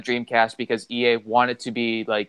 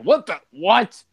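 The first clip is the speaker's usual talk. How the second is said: surprised; 8 semitones higher, 4 dB louder, slower than usual. Retold or imitated. Shocked by surprise boss.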